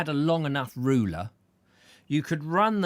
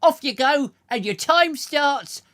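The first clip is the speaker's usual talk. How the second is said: mock commands; 10 semitones higher, 7 dB louder than usual. Ordering the stars about.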